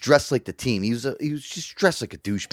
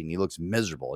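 usual speaking voice

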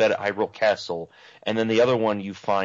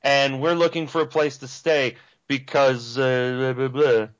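goofy character voice; 3 semitones higher than usual. Retold or imitated. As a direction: ham up a naive RPG hero. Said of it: "He's just like".

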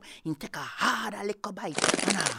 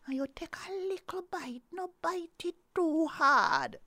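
pleading Nancy; 9 semitones higher than usual. Acted. Nancy begs Snake not to bite too hard, higher voice. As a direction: beg him gently, pitched up.

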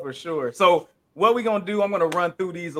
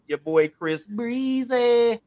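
hype announcer; 5 semitones higher, 4 dB louder, much slower than usual. Acted. Hyping up an artist.

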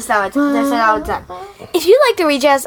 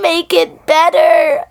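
vocal fry; 4 semitones higher, slower than usual. Real, not acted. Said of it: "that was a really good vocal fry".

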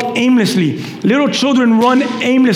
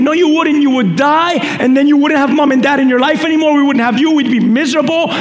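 quick, insistent parental telling-off; scolding parent; 4 semitones higher, faster than usual. Acted. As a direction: lecture a child who argues back. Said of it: "you scold them and say".

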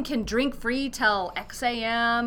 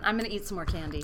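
whisper; 4 semitones lower, 7 dB quieter, much faster than usual. Real, not acted. Aside while grabbing candy.

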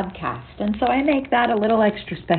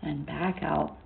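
guided meditation. Acted. Leads a meditation session.

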